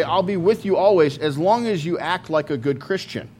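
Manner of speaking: sarcastic voice of a fussy preacher; lightly sarcastic mock quote; mock conditional promise. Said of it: "Jesus doesn't say".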